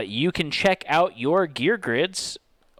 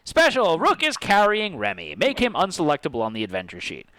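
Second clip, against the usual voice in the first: game announcer read; 3 semitones higher than usual. Acted.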